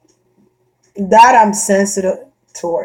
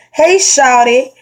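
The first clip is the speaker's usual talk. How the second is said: imitating catcalls; 4 semitones higher, 3 dB louder, much slower than usual. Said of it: "If a guy say".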